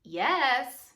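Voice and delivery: loud joyful yell; shouted. Acted. Daniel shouting up from the den to the king. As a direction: shout up the good news. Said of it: "Daniel shouted".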